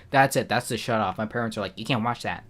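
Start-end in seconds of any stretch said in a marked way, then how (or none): 1.8-2.4 lightly put-on Southern accent, a bit soft; mock Southern accent. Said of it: "I gave them, like, a Southern accent".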